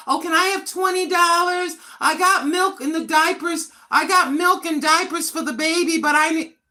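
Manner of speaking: whiny imitation of a child with a baby asking mom for money; mocking a grown child. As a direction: ham up a grown kid begging twenty dollars.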